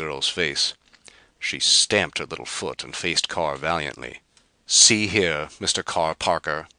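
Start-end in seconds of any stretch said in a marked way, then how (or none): 4.6-6.7 storming. Acted. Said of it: "she stormed".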